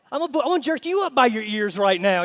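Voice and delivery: loud, laughing through a playful threat; hammed-up mom threat with laughter; laughing mock threat. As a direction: threaten like a mama while cracking up.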